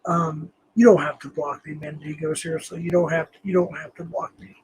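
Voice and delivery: ordinary talk, nothing marked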